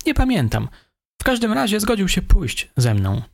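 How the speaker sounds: the suspect. A narrator's reading. Suspect answers.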